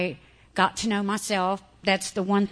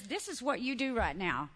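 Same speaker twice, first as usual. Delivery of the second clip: softer, firm businesslike orders; a hint of a stern mentor; stern quiet instruction; 3 semitones higher, 6 dB quieter than usual. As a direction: lay down the plan calmly. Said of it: "She says".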